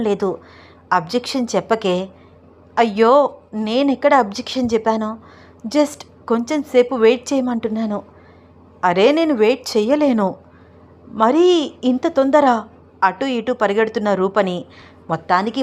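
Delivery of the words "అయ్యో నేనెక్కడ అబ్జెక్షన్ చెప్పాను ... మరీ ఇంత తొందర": raised, sing-song pleading of a shy bride; lightly voiced bashful wife, pitch lifted; coy pleading wife. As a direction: wriggle out of it with teasing excuses. Roopa teases and evades.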